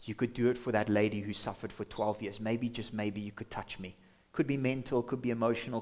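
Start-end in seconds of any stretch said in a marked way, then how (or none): 0.0-4.0 soft, near-whispered plea to God; hushed pretend prayer. Listener imagining a quiet prayer, hushed plea. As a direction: breathe it like a timid hope. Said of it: "as you feel your faith levels rise".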